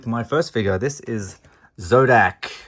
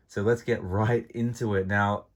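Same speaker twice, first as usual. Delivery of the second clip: spit in mouth; 5 dB quieter than usual. Real, not acted. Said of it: "got a bit of spit in my mouth".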